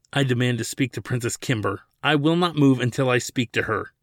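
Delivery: a touch of sneering bravado. Acted. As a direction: stand your ground and let it ring. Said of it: "Ladin's voice echoed off the walls".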